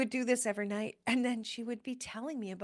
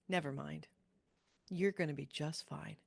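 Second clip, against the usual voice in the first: softer, lower, giving in; mom relenting softly; 7 semitones lower, 7 dB quieter than usual. Retold or imitated. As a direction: let it settle down quietly like mom conceding. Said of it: "she would go".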